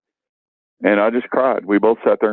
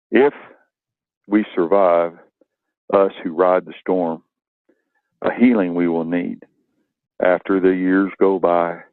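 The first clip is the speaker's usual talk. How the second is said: poem recital. Acted. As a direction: read it like a tribute to fallen brothers. Reads his poem to veterans.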